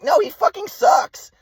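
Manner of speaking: very high, drawn-out mock wail as mom; exasperated mother imitation. Mom cutting off son's explanation, exasperated high mock wail. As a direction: mimic mom's high-pitched exasperation, stretching the end. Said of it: "but my mom was like".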